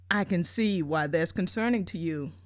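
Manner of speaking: hushed, soothing counselor whisper; calm him like a therapist, barely voiced. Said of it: "she's got this beautiful, smooth voice".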